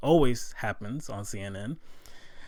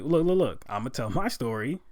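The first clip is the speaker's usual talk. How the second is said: louder, higher insistence; heated retort; 4 semitones higher, 4 dB louder than usual. Retold or imitated. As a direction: hold the floor firmly, imitating him. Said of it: "And he's like".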